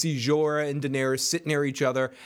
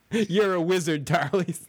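Harry Potter quote; 2 semitones higher than usual. Retold or imitated. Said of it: "Sam, wizard in the making".

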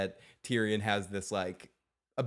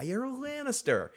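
sharp high-pitched You're a Lannister; mock high plea; 12 semitones higher than usual. Tywin pleads with his son at crossbow point, pitched high.

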